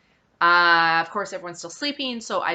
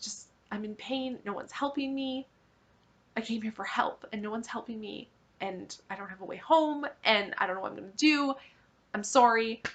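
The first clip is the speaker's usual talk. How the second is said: crying; 3 semitones higher, 6 dB quieter than usual. Retold or imitated. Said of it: "And I'm crying".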